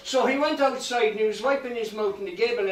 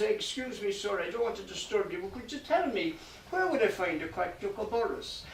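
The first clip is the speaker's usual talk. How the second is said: soft, apologetic request; hushed and deferential; timidly polite; 6 dB quieter than usual. Acted. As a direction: ask softly, careful not to disturb. Timidly asks the next busy man.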